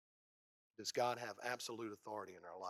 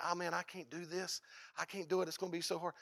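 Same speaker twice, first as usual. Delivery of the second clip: whiny excuse; 5 semitones higher than usual. Acted. Voicing a fearful believer's excuse.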